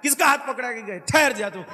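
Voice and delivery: put-on high playful boy's voice; little Kanha, just woken, scolding the aunt; child Krishna voice. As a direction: play the mischievous child woken up.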